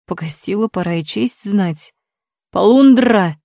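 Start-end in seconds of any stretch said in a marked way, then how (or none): 2.5-3.4 loud squawking cry; parrot shout. A narrator's reading. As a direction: bark it like a parrot. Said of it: "крикнул мне вслед попугай".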